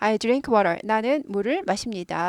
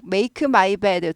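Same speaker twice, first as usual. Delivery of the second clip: 단어마다 끊어서 천천히 make my bed; staccato; much slower than usual. Shown as a demonstration. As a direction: make my bed, very slow and word by word. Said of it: "초보입니다". (초보식 스타카토 발음)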